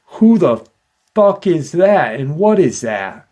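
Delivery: a friend jolted awake by someone at the fire, crying out in alarm; startled outburst. Retold or imitated. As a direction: blurt it out in shock at a stranger. Friend startled by stranger at camp.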